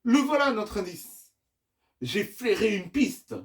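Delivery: high, loud cry of discovery; exclaiming. Acted. Chase tells the team he has a lead, exclaiming. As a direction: announce the find like an eager hero.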